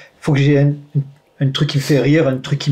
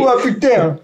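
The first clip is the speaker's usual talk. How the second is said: mock Marseille accent; 8 semitones higher, slower than usual. Echoes the mocked accent.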